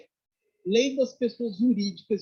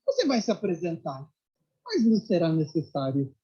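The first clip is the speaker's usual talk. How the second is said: master's calm reply; 2 semitones lower than usual. Retold or imitated. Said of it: "Aí Meixo Sama".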